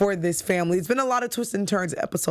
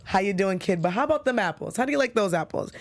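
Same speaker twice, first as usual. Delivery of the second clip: put-on Boston accent. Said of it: "that's a Bostonian thing".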